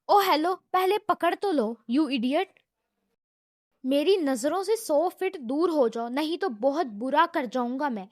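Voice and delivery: loud, mocking taunt; defiant sass. Secretary taunts the angry visitor with loud defiance. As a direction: square up and sneer at him. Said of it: "تیور دکھاتے ہوئے".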